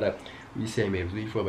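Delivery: soft-spoken pick-up line; sus chat-up. Shown as a demonstration. Man demonstrating his approach to a girl, sus and soft. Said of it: "you're a bit more sus".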